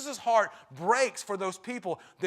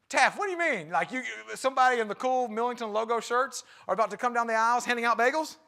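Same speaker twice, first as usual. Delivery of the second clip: higher, louder, incredulous question; puzzled congregant; 4 semitones higher, 4 dB louder than usual. Retold or imitated. Congregant baffled by pastor's single bagel. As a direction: sound baffled, like a church member confused.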